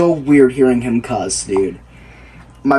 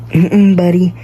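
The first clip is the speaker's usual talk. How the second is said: scolding buddy; 3 semitones higher than usual. Retold or imitated. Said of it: "I was like".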